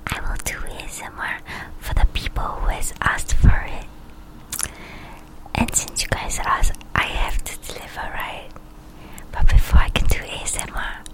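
whispered close to the mic; ASMR whisper. Real, not acted. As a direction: whisper it all, unvoiced.

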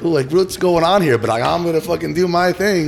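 high, loud clown voice; high goofy clown voice. Retold or imitated. Clown bit, acted inner voice.

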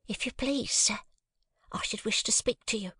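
high, breathy servant's whisper; hushed, urgent maid; whispering housemaid. A narrator's reading. Housemaid voiced in story.

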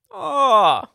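high, loud movie-quote Aussie greeting; mock Australian accent. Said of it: "the beginning of Dumb and Dumber".

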